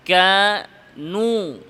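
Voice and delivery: কানু with the waw drifting toward an alif sound; waw sliding to alif. Shown as a demonstration. Teacher showing the wrong mixed vowel. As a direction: demonstrate the mistake: কানু leaning to aa. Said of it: "আলিফের দিকে".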